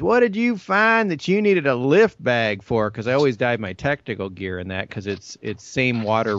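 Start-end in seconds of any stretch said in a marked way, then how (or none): 0.0-2.9 much higher, louder incredulous question; a hint of the captain teasing the diver; mock-surprised boat captain. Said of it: "he goes, he goes".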